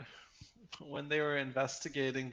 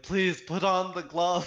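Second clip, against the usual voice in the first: louder, drawn-out mock plea; desperate plea; 5 dB louder than usual. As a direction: plead slowly, hamming up the desperation. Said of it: "he was so desperate looking".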